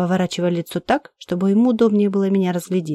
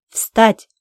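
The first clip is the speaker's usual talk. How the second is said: sharp loud command to stand; barked order; 3 semitones higher, 5 dB louder than usual. Acted. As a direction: bark it like a brutal captor. Interrogator orders her up.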